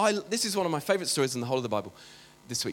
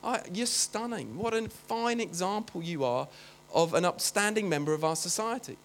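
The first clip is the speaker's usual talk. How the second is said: imagined gushing praise; 4 dB quieter than usual. Retold or imitated. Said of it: "you'd expect Jesus to say".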